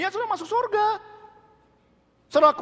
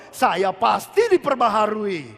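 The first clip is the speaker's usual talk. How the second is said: slow, firm, louder declaration; confident confession; 3 semitones lower, 5 dB louder, slower than usual. Shown as a demonstration. Preacher modelling renewal for the church, slow and firm. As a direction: state "Saya pasti diperbaharui" slowly, with weight on "pasti". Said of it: "bilangnya begini dong".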